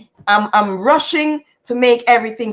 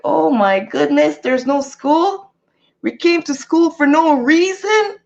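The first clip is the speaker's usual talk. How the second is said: son's dismay; 5 semitones higher, slower than usual. Retold or imitated. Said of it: "He's like".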